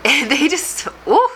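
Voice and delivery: tearing up mid-sentence; choked up. Real, not acted. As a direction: voice catching with emotion. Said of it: "I'm choking up".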